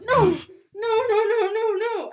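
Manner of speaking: loud, high-pitched string of distraught no's; freaking out. Retold or imitated. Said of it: "and, like, freak out".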